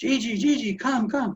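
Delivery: long, high, drawn-out hollering scream. Speaker recalls screaming to Gigi through a window: retelling a scream. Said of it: "I'm screaming at him".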